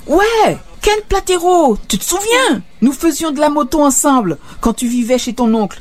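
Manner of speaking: put-on a joyful drunk pal calling out to his lost buddy; eager old friend. Ken reminds Doug of himself. (l'ami retrouvé appelle Doug, voix bien plus haute et ravie)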